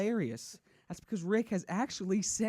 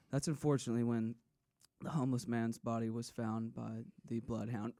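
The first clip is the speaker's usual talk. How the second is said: hushed serious storytelling; 9 semitones lower, 7 dB quieter than usual. Retold or imitated. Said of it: "but it'd be like".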